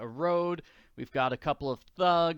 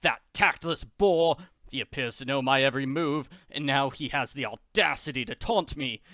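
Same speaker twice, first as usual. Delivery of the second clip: mild villain fuming; a hint of scheming rage; angry Count; 3 dB louder than usual. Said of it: "the Count angrily paces the room".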